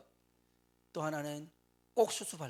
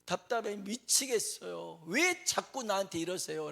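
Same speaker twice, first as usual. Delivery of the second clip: pleading prayer; 3 semitones higher than usual. Retold or imitated. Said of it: "라는 거였습니다".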